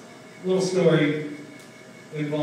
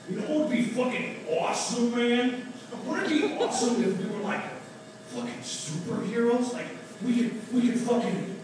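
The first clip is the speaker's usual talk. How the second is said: higher, excited dude voice; Seth Rogen stoner pitch; 5 semitones higher than usual. Retold or imitated. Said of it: "some impressions here".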